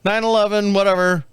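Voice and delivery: put-on a lightly done Indian accent doctor voice; mock Indian accent. Comic imitating the heart doctor with a strong Indian accent. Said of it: "strong Indian accent".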